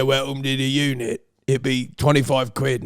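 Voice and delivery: put-on British bodybuilder accent; British gym owner. Quoting an English gym owner, mock British accent. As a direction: imitate a British gym boss. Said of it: "He said".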